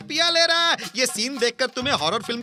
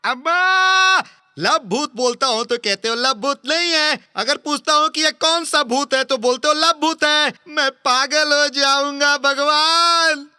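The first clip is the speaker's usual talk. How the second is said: exasperated outburst; 3 dB louder than usual. Acted. Exasperated outburst, going mad.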